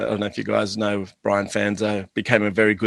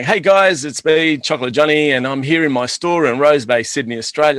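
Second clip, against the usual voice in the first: bright, louder, higher presenter greeting; mock livestream intro, higher and louder; live stream host; 3 semitones higher, 4 dB louder than usual. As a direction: greet viewers like a live broadcaster. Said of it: "walking around and going".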